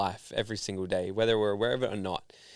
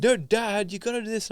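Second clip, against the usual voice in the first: mock exasperated son; 10 semitones higher, 3 dB louder than usual. Son correcting father over tech.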